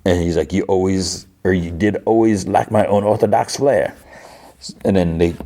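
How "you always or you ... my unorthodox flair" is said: bad put-on Cajun accent; lightly hammed-up Cajun charmer; Gambit. Gambit answers Rogue over dinner, bad Cajun accent. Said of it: "the worst Gambit accent ever".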